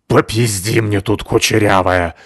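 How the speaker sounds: slow, loud, menacing snarl; vicious hiss. Acted. Натаха прижала Абуту коленом, loud slow snarl. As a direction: pin her down and threaten. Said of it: "злобно зашипела женщина".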